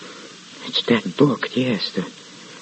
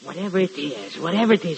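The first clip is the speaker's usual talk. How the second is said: much softer, under the breath; hushed menace; 4 semitones higher, 8 dB quieter, much faster than usual. Acted. Muttering a vow to himself.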